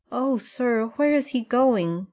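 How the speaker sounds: put-on high anxious cry of a boy; a boy crying out in alarm; upset cry. A narrator's reading. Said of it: "cried Nat".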